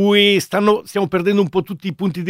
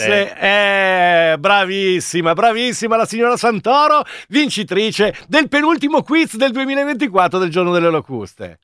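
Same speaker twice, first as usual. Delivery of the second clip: showy game show host. Acted. Host praising quiz winner.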